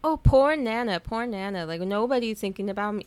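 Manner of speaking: mock dramatic self-pity. Mister Darling sulking over the dog, mock dramatic. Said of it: "he's very dramatic".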